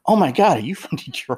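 put-on the old Detroit man thrilled to spot the accent; excited old man. The old man excitedly recognizes a fellow Detroiter. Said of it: "He came running up to me".

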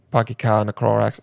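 low, half-hearted Boston accent; rough attempt at Boston speech; bad Boston accent. Shown as a demonstration. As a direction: badly fake a Boston accent. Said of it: "bad accent".

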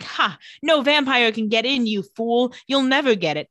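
mock evil gloat with a scoffing "ha"; hammed-up villain taunt. Villain taunting his captors about the cave, mock gloat. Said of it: "Evil Alaric laughs because he's like".

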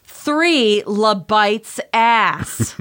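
"Three Le Bites ass" said very slowly, each word drawn out; slow and loud. Retold or imitated. Retelling repeating the order to the bartender, mock slow and loud. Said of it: "I repeated slowly and loudly".

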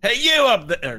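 high, loud shout from below; calling up. Acted. Sheriff to those up on the hand, calling up. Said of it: "You hear a voice from down below".

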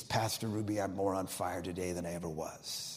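soft, low retold deathbed words; quiet testimony. Dying woman to her pastor, soft and low.

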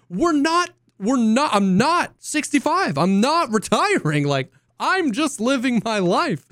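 high, slowed protest; exasperated. Retold or imitated. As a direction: plead it high and drawn out. Exasperated imitation of himself.

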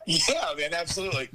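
talking through a phone speaker. Real, not acted. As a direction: voice over a speakerphone. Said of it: "I'll put him on speaker".

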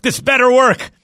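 put-on loud, high shout in a Boston accent. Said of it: "That terrible Boston accent".

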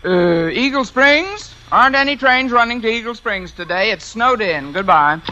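lightly put-on railroad clerk; disguised voice. Fake station clerk turning away a traveller, lightly disguised. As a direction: pose as a station clerk putting off a caller. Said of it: "as soon as I can disguise my voice".

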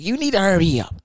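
high, loud order from the boss; bossy demand. Retold or imitated. Boss tells the cook to hurry, loud and high. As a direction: bark it like an impatient supervisor.

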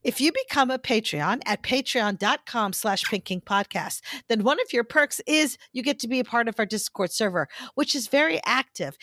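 measured podcast ad read; serious advertising voice. Real, not acted. Host pitching Patreon to listeners, serious advertising voice. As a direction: deliver the perks in a composed promo voice. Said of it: "my serious advertising voice".

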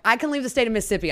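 fast, high, emphatic question; said loud and clear. Retold or imitated. Asking the judge to confirm her release, loud and clear. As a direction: spell it out loud so no one mistakes it. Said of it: "I said that one loud".

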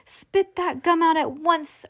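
high, slow command; anxious mother giving an order; urgent order. A narrator's reading. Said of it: "ordered Missus Beauregard".

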